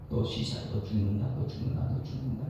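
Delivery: hushed, low threat; menacing whisper. Acted. Preacher voicing a creeping fire's threat, menacing whisper. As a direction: breathe the threat out like a curse.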